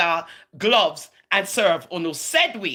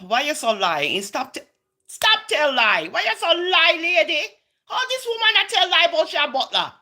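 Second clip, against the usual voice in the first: 1 mocking heckler voice; 8 semitones higher than usual. Mocking herself as another voice.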